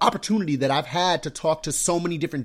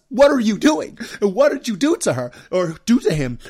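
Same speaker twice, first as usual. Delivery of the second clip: louder mother yelling at dad accusingly; mock yell; 3 semitones higher, 4 dB louder than usual. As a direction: bark the accusation at the husband. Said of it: "yelling at us".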